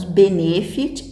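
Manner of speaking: "benefit" with the middle syllable, ne, stressed; wrong stress on NE. Shown as a demonstration. Teacher showing what we don't say, "benefit" stressed on ne. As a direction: lean on the middle of "benefit": be-NE-fit. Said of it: "Nós não falamos".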